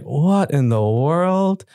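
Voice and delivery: slow amazement. Retold or imitated. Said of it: "So I'm like".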